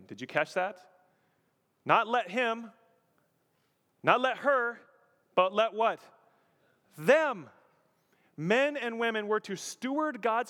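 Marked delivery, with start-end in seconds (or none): 1.8-7.5 loud, raised "him" and "her", then a punched "Them"; emphatic contrast. Real, not acted. Preacher quizzing congregation on who rules, stressing "Them". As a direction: hit "Them" high and hard after a pause. Drilling the key word into congregation.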